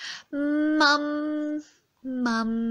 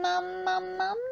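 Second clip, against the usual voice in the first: modelling a word; 6 semitones higher than usual. Shown as a demonstration.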